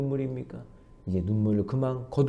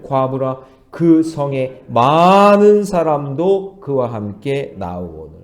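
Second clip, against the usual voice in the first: measured, slow Bible reading aloud; slow scripture reading; 5 dB louder, slower than usual. Acted. Pastor leading the verse for the congregation, slow and deliberate. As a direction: read the verse slowly and deliberately to the church.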